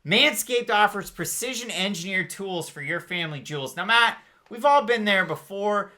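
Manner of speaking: upbeat sponsor read, salesy pitch. Acted. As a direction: sell it like a podcast ad. Host reads a sponsor ad.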